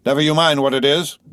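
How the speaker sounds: high, forceful retort; sharp retort. A narrator's reading. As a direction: shout back a brush-off. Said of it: "the guard retorted".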